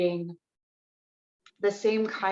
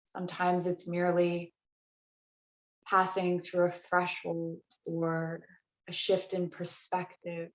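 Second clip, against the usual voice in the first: unhurried meditation voice with long pauses; guided relaxation. Real, not acted. Yoga teacher easing the class into restorative practice, guided relaxation. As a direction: guide them gently into rest, phrase by phrase.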